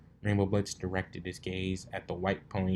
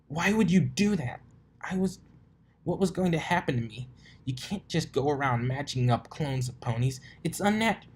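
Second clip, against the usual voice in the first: high, rushed alarmed voice; panicked rant; 7 semitones higher than usual. Acted. Pegasus mare berating Rarity, high panicky rant. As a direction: spill it out in panic.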